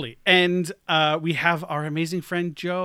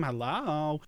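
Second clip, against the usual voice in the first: Long Island hello; 5 dB quieter than usual. Pretend. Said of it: "that should be one of my characters".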